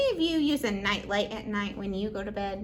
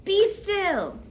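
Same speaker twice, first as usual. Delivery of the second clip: firm command; 7 semitones higher, 6 dB louder than usual. Acted. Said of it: "and he says to the waves".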